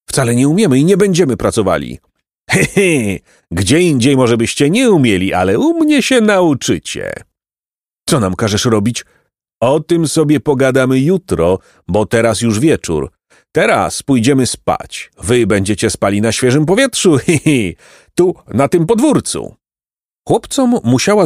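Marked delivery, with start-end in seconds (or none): 0.1-2.0 put-on quick, higher-pitched refusal from a captive boy; defiant protest. Chłopcy sprzeciwiają się potworowi. 2.5-19.5 lightly voiced monster with little chuckles; mocking monster. Potwór drwi z chłopców.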